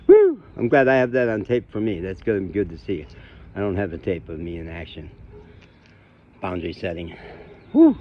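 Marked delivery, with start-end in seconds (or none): 0.1-0.4 sudden loud, very high "woo"; relieved whoop. Real, not acted. Shaking off a confrontation, relieved whoop. Venting after an angry confrontation. 7.7-8.0 sudden loud, very high "woo"; relieved whoop. Real, not acted. Shaking off a confrontation, relieved whoop. Venting after setting a boundary.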